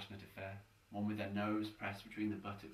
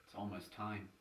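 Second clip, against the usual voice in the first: softer, mildly sorrowful; hint of sorrow; 6 dB quieter than usual. Elizabeth at his hospital bed, softly, with a hint of sorrow. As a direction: say it softly, with a touch of sadness. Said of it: "with a hint of sorrow in her voice".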